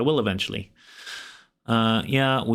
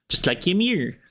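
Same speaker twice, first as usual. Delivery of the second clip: odd sing-song; 7 semitones higher than usual. Real, not acted. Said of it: "I don't know why I said it like that".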